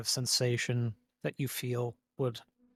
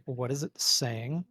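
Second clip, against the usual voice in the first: deep booming voice. Acted. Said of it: "in a deep and booming voice".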